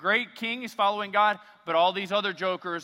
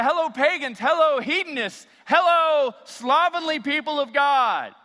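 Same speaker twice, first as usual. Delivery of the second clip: loud, higher, relish each insult; hammed-up pulpit provocation, louder; mock insulting greeting; 6 semitones higher, 9 dB louder than usual. Pastor insulting his congregation from the stage, loud and mock. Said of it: "if I walked up on a stage one Sunday morning and I said".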